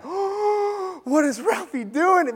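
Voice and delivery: high-pitched mock astonishment; shocked onlooker. Kids at the fence watching Ralphie, mock shock. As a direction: voice jumps up in disbelief.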